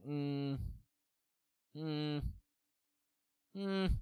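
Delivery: short, reluctant "mm" sounds; hesitant hum. Retold or imitated. Streamer recalling doubts about paying for rehab, hesitant hum. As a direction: hum doubtfully, pausing between each. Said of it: "but I was like".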